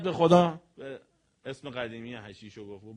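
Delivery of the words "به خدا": a loud cry of به خدا; loud pleading shout; retold shout. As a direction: yell it to the crowd in panic. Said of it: "داد زد".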